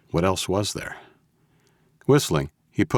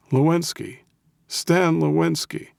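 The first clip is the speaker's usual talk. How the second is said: put-on high-pitched, cranky old voice; crabby old man; 12 semitones higher than usual. A narrator's reading. Old man telling the Russian his name, crabby. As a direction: give the name like a grudging old codger. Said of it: "his best crabby old man voice".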